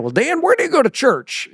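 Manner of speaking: high, cheery greeter voice; sweet, prying church greeter; imitating the greeter. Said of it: "greeter asks dad".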